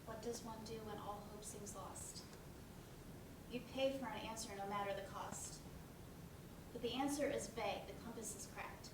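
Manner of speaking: soft, measured rhyming recital; poem recital. Acted. Narrator reciting a rhyme to the audience between scenes, soft and measured. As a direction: recite the verse gently.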